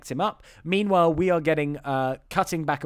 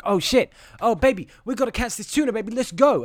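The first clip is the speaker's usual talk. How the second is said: mock excited; 5 semitones higher than usual. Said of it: "And he's like".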